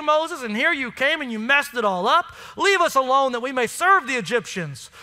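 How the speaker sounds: mock the grumbling Israelites with snark; snarky sarcasm. Pastor voices Israelites grumbling at Moses, lightly snarky. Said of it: "it's like snarky sarcasm".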